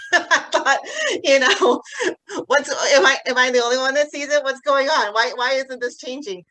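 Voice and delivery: real tears breaking through the retold doubt; tearful. Real, not acted. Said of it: "And I'm gonna cry".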